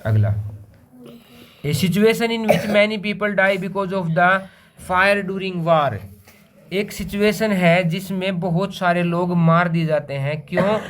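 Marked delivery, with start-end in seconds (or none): 1.7-5.9 slow, word-by-word read-out; slow dictation read. Shown as a demonstration. Teacher to students, reading the definition, slow dictation read. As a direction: read it out slowly so the class can write.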